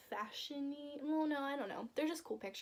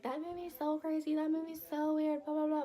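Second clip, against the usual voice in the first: higher, louder mock-critic voice; imitated complaint, raised and dismissive; mimicking everyone's complaints; 5 semitones higher, 5 dB louder than usual. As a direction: parrot the critics in a raised singsong. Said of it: "everyone's like".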